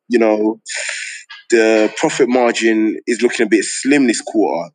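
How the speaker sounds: slow, careful corporate meeting voice; lightly done office-boss voice for the FD; professional voice. Retold or imitated. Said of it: "putting on my professional voice".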